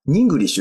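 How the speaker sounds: "English" said as "ningurisshu"; "English" with a linking n in front; linked pronunciation. Shown as a demonstration. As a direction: start "English" with the n carried over from "in". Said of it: "Englishって言ってるわけですよね".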